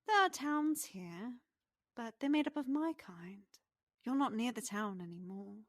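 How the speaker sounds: high, lilting pixie voice; pixie character voice. Acted. Game master plays the pixie.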